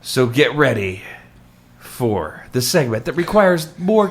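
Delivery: hammed-up show introduction with big pauses; mock-grand announcer. Host presenting Dramatic Readings to the audience, mock-grand announcer. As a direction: build up the segment like a ringmaster.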